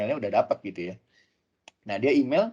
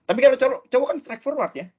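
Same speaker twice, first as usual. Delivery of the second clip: emphatic contrast; 11 semitones higher, 7 dB louder than usual. Real, not acted. Contrasting men with women.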